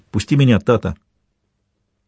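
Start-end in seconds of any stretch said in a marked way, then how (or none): none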